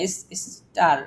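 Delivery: "স্টার" with the R left silent; "স্টার" said as one word, the R dropped; teacher pronunciation demo. Shown as a demonstration. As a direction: show how "ইস-, স্টার" is said, no R. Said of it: "এর উচ্চারণটা এখানে আসতেছে না".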